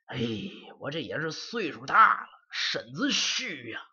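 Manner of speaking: a hint of a frail old servant, muttering; old servant complaining of the cold; lightly voiced old man. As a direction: grumble to yourself like an old man.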